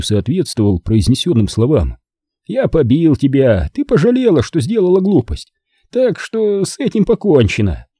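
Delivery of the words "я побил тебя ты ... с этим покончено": lightly voiced brutish man, higher; a hint of a crude, final tone; грубый Мальди. A narrator's reading. Maldi speaks, ape-like man. (слегка изображённый грубиян, твёрдо)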